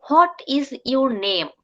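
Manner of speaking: "hot is" in What is your name, with a full T; slow What is your name with separate words. Shown as a demonstration. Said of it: "এখন আমরা সব সময় বলি".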